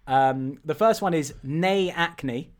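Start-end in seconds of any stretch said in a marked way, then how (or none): 1.4-2.5 slow, lightly put-on Scottish accent. Host offering a film-title anagram, light Scottish accent. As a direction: say it slowly with a hint of Scottish. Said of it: "a Scottish accent".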